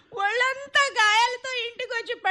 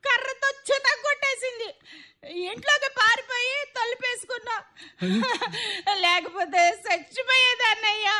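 tearful complaint. Acted. Wife tearfully complains of mother-in-law.

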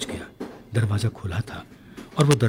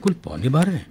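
a touch of letdown, slightly higher and louder on कुल; disappointed; 5 semitones higher, 4 dB louder than usual. A narrator's reading. Woken man on the upper berth hears the time, mildly disappointed. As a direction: sound let down that it is only this late. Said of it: "उसने निराश स्वर में कहा".

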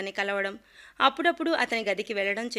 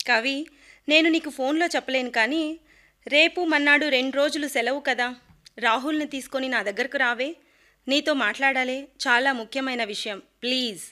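a lightly voiced, raised-pitch plea; hoarse pleading; 3 semitones higher, 3 dB louder than usual. Bharati begging Kavitha over the phone, lightly pleading. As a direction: beg her friend to come, a touch of strain. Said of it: "బొంగురుపోయిన గొంతుతో బతిమాలింది".

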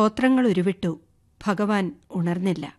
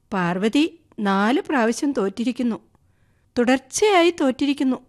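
mocking; 3 semitones higher than usual. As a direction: rub in her losses with a mild taunt. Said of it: "പരിഹാസഭാവേന പറഞ്ഞു".

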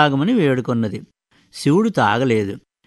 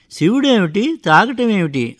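angry father; 5 semitones higher than usual. Retold or imitated. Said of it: "అని కోపంతో".

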